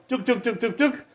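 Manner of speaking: soft spoken knock-knock sound; imitated door knocking. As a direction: mimic knuckles rapping on a door. Acts out knocking on doors.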